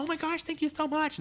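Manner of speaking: very high, hammed-up gratitude; gushing thanks. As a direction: imitate a celebrity gushing at a fan. Voice actress gushes to a fan.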